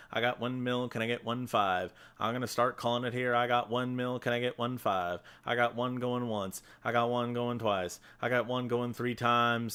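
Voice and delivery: fast, rhythmic auction calling; auctioneer. Pretend. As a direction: rattle off bids like an auctioneer. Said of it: "Am I doing a good auctioneer job".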